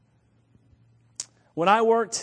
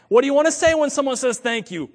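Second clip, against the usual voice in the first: higher, louder challenge as a coworker; scornful coworkers; 6 semitones higher, 6 dB louder than usual. Retold or imitated. Coworkers mocking the polite phrase, incredulous.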